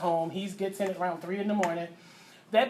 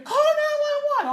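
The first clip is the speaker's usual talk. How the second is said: much higher, louder slow scream for help; 5 dB louder, slower than usual. Retold or imitated. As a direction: scream it in panic, slowly. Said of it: "I'm screaming".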